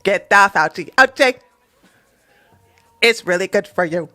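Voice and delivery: flat robotic announcer; mock robot voice, steady delivery. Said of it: "I should sound like a robot".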